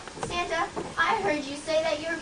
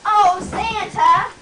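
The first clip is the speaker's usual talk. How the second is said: calling out; 5 semitones higher, 9 dB louder, much slower than usual. Acted. Hidden girl calls out again.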